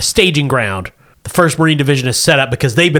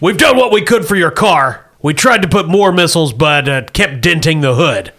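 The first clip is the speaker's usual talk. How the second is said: military officer giving a briefing; briskly brief the troops; Marine captain voice; 2 semitones higher than usual. Acted.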